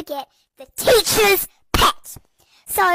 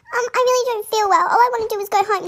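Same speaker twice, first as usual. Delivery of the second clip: higher, hurried, lightly whiny plea; acted feeling-unwell plea; mock tearful; 4 semitones higher, faster than usual. Sick pupil begging the teacher to go home, mildly tearful. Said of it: "you're literally in tears".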